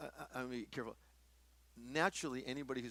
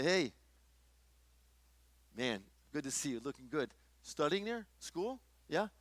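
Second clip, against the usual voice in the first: friendly greeting; 3 semitones higher than usual. Acted. Preacher acts out greeting a guy alone at Starbucks, friendly.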